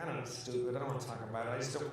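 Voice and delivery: low, soft, withdrawn reply; imitating someone near tears. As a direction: retreat into a small, dejected voice. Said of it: "he's about to cry".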